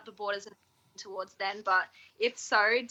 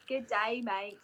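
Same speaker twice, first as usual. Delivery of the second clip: put-on Australian accent; 5 dB quieter, slower than usual.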